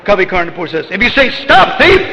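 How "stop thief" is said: high, raised cry of alarm; accusing shout. Acted. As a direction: call out to halt a thief. Acts out people shouting at Krishna.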